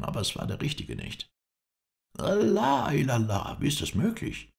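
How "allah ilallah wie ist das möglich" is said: high, loud cry of amazement; aghast, pitch shooting up; shocked disbelief. A narrator's reading. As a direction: exclaim in sudden alarm. Shocked at news of an impostor.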